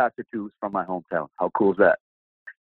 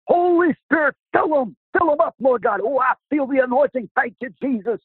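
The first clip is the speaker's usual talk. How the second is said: imitating the prayer group in a squeaky falsetto; mock charismatic prayer. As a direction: ham up the Pentecostal pray-ers, sky-high.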